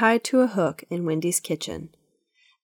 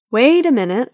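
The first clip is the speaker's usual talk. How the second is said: louder, higher "wait a minute"; firm call to stop; 6 semitones higher, 8 dB louder than usual. A narrator's reading. Granddad halts the breathless grandkids, louder. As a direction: raise the voice to halt the kids. Granddad stops the children's questions.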